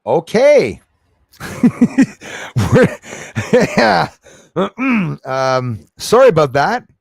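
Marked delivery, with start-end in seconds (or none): 0.0-4.1 loud, high burst of laughter; laughing. Real, not acted. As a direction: crack up laughing. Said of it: "I'm laughing because stupido me".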